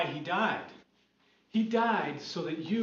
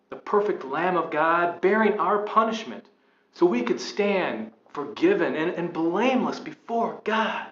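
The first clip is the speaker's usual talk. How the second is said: fervent; 2 semitones higher, 5 dB louder than usual. Acted. Fervent testimony to the man.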